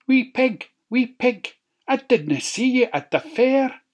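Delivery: high, sly wolf. A narrator's reading. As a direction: coax like a wolf. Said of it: "wolf calls again".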